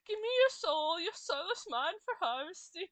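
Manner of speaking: loud, looming death voice; booming reaper threat. Acted.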